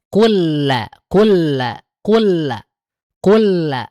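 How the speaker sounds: "kul la" repeated, lam merged; drill repetition. Shown as a demonstration. Teacher drills the merged lam for the students. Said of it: "Lam sukun ketemu lam".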